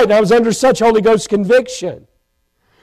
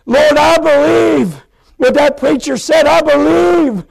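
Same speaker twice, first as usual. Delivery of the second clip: retold heartfelt plea, pitch slightly raised; earnest prayer; 3 semitones higher than usual. New convert praying to the Lord in the car, pleading. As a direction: cry out to God, reliving the moment. Retells his desperate prayer of salvation.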